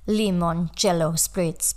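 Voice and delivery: slow, badly done Italian accent; clumsy, drawn-out Italian-accented words; terrible Italian accent. Shown as a demonstration. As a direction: attempt an Italian accent with English showing through. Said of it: "that's my terrible Italian accent".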